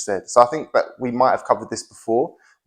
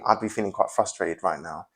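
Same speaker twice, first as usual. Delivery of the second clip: gentle self-framing; 4 semitones lower, 7 dB quieter than usual. Shown as a demonstration. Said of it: "reduce the invasiveness".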